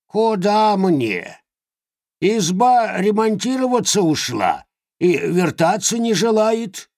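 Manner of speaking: grumbling hag; complaining old witch. Acted. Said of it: "пожаловалась Яга". (жалующаяся ведьма)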